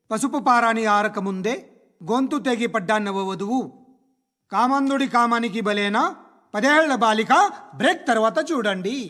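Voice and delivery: dramatic crime-show teaser, lightly imitated; mock TV presenter. Man mocking TV crime shows, gleeful presenter imitation. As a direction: imitate an anchor relishing grisly news. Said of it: "ఎంతో ఆనందంగా, ఇంట్రెస్టింగ్గా చెప్తారు".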